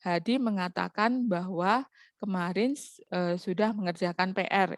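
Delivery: even statement tone on "Hadi mengatakan bahwa kemarin"; level, matter-of-fact reading of "Hadi mengatakan"; flat intonation. Shown as a demonstration. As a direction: read "sudah mengerjakan P R" evenly, like reported news. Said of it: "intonasi atau pengucapannya itu datar".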